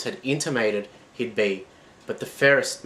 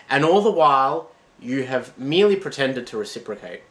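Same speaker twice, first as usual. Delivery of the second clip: bitter accusation; 4 semitones higher, 5 dB louder than usual. Acted.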